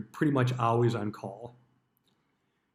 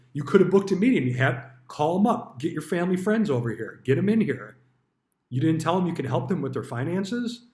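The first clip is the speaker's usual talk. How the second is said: higher, pushy mock scolding from a boss; manager scolding; 4 semitones higher, 3 dB louder than usual. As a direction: lay into him like a hammed-up sales manager. Manager scolding him for not selling.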